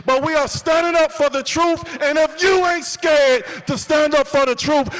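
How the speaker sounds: rally hype speech. Real, not acted. Fires up the rally crowd.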